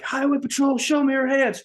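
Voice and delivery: high, loud commanding shout; police yell. Retold or imitated. Officer shouting at a raccoon, loud high command. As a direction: bark it like a cop at a traffic stop. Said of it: "and I yell".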